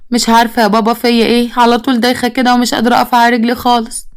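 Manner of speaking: put-on tired whine on one level note; feigned fatigue. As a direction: pretend to be worn out and dizzy. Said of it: "كانت بتمثل التعب". (بتمثّل التعب والدوخة)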